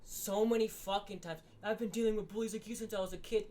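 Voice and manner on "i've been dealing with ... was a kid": mock promo quote. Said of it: "Damian Priest had a promo like that".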